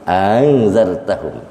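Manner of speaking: slow "Angzartahum" with a glided second hamzah; tashil without madd. Shown as a demonstration. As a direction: soften the opening of "Angzartahum", no long first vowel. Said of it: "tanpa mad".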